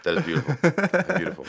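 high, mock-delighted praise; mock swooning admiration. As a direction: swoon over the phrase. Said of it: "it felt like".

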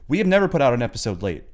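high, loud, self-important protest; indignant mock argument. Podcaster defending the show to partner, indignant. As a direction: argue as if the tiny podcast were sacred.

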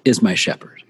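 "is my shepherd" dropped into a whisper; hushed whisper after the lifted "Lord". Shown as a demonstration. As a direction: breathe the words out with no voice. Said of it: "it's saying something specific".

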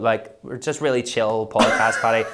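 relaxed host voice from the throat; lightly voiced throaty host; impression of the host. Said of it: "from back of the throat".

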